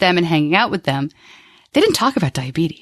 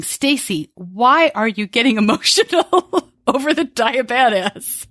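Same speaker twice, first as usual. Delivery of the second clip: teasing listener quote; 4 semitones higher, slower than usual. Retold or imitated. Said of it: "you're thinking".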